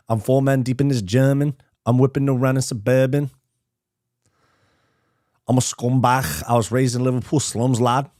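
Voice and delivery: rough amateur Scouse impression; Scouse accent attempt. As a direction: have a go at a Liverpool accent. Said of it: "your Scouse accent attempt got me in stitches".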